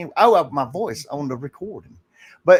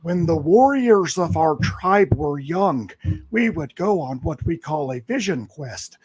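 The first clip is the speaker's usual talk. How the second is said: put-on very old man. Shown as a demonstration. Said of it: "talking like an old Indian man".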